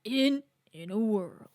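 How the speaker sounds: slow whispered announcer line; whispered trailer voice. Shown as a demonstration. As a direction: breathe it out without voice. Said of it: "deep, announcer voice".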